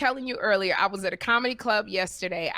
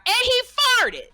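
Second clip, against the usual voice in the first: much higher, loud mock yell; heckler's scream; 6 dB louder than usual. Heckler yelling over the punchline, a high loud mock scream. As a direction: bellow it like a rude heckler. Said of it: "the man screamed out".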